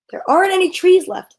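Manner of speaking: high-pitched mild yell; child's yell. A narrator's reading. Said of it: "yelled one of the children".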